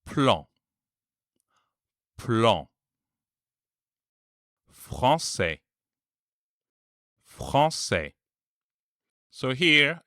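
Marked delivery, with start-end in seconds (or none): 0.0-2.7 plan ending in a nasal an; French word. Shown as a demonstration. Teacher modelling the final nasal an. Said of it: "For example". 4.7-8.1 Français with a nasal an, French R; French word. Shown as a demonstration. Teacher modelling the nasal an in Français. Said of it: "For example".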